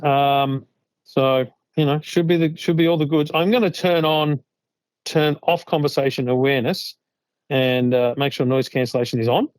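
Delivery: phone call through earbuds; processed earbud mic sound; noise reduction artifacts. Real, not acted. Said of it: "So this is the phone call there".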